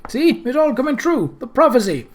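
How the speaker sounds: high, gleeful crow; triumphant. A narrator's reading. Groat to the others about the prophecy, triumphant. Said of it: "said Groat triumphantly".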